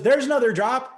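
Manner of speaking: lightly mock the cocky doctor; mock smug doctor. A hint of the cocky doctor boasting to his patient.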